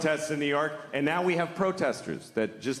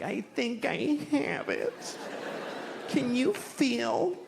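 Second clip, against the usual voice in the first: mock worried hypochondriac; 8 semitones higher, much slower than usual. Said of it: "I was like".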